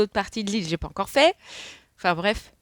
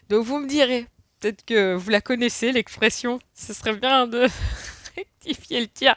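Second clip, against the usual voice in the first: higher, louder, giggly speech; real lingering laughter; 5 semitones higher, 5 dB louder than usual. Real, not acted. Asking viewers to correct the expression, still laughing. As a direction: keep talking as the laugh bubbles up. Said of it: "Je rigole parce que".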